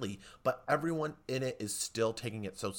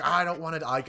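hammy Shatner yell; 4 semitones higher, 5 dB louder than usual. Retold or imitated. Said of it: "yelling to the back of the theater".

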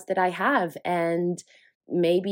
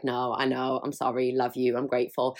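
mock husband apology; 5 semitones lower than usual.

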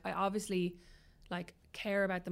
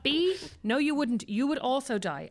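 higher and louder, cutting him off; firm scolding; 4 semitones higher, 4 dB louder, slower than usual. Retold or imitated. Stepmother scolding boy after ice scare, firm higher telling-off. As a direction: shut down his boast firmly.

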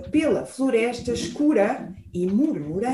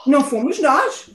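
grumbling bear. Acted. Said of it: "resmungou o urso".

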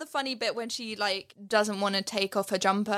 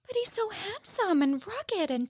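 gushing mum; 9 semitones higher than usual. Retold or imitated. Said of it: "she's like".

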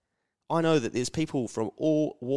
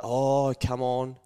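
disapproving elder; 3 semitones higher than usual. Retold or imitated. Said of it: "by the time you start getting a little bit older".

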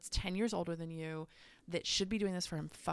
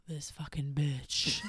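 whispered slow curse under the breath; seething whisper; 2 semitones lower, slower than usual. Retold or imitated. Whispering to herself about her boyfriend, seething whisper.

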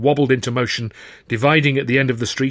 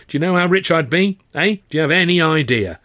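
raised, higher rhetorical demand; exasperated; 6 semitones higher, 4 dB louder than usual. A narrator's reading. Exasperated manager challenges young hopeful, fed up. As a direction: build to an indignant challenge.

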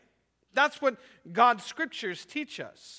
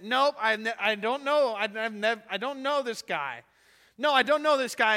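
panicked denial; 3 semitones higher, 6 dB louder than usual. Retold or imitated. Peter's panicked denial, acted.

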